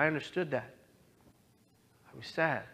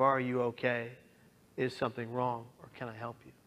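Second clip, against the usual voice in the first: gentle check-in; 3 semitones lower, 3 dB quieter than usual. Shown as a demonstration. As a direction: lower and softer, fading to near silence. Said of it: "say something to the effect of".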